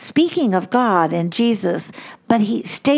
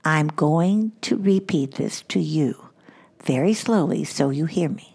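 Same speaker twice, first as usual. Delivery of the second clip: slow deliberate parent; 4 semitones lower than usual. Retold or imitated. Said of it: "we say to our children".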